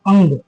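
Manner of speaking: "अंग" pronounced as the name of the letter; demonstrated pronunciation. Shown as a demonstration. Teacher showing students a letter's pronunciation, "अंग" said as ang. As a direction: say "अंग" with a nasal before the g. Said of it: "इसका जो उच्चारण होता है".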